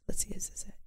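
unvoiced mutter to herself; whispered aside. Real, not acted. Looking through her phone, whispering to herself. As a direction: whisper to yourself while searching.

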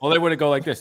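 normal talking voice

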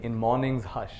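slow, measured reading of a poem, line by line; poem recitation. Acted. Teacher leads the audience through a memorized poem, slow recitation. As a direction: recite it slowly so the room can echo you.

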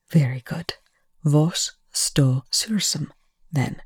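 slow, measured mock courtesy; faux politeness. A narrator's reading. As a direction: feign politeness, softly and deliberately. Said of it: "with faux politeness".

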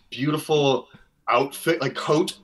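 Minnesota accent slipping out on "coat" and "boots". Real, not acted. Model recalling the photographer's outfit, Minnesota accent showing. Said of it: "Here's my accent. Did you hear my accent?".

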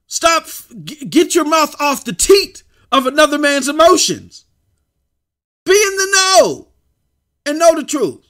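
high, loud and fired up; fired-up rant. Real, not acted. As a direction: preach it at full force. Fired-up rant urging viewers.

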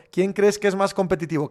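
usual speaking voice

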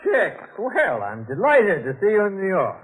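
high, gushing society-man greeting; effusive greeting. Acted. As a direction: greet him with showy delight. Suave Vincent greets Chick.

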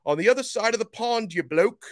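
over-the-top mock British accent; bad British accent. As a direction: put on a cartoon British accent for a London listener. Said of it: "I tried to, to imitate the accent over there".

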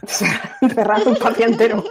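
slow, laughing through the words. Real, not acted. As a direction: laugh as you say it. Joke about Patria being shut.

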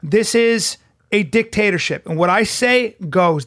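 a hint of a stern father, slowing down; stern dad lecture. Dad to his son, mildly stern lecture. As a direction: lay down the law to your son. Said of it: "I go".

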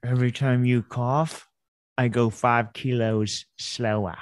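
slow, lightly Aussie driver taunt; lightly mock Australian. Driver taunting a coughing passenger, slow mock Aussie.

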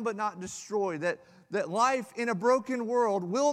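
emphatic preaching. Real, not acted. Pastor rallying the congregation, emphatic. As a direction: proclaim it with conviction. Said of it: "reapplies the verse with force".

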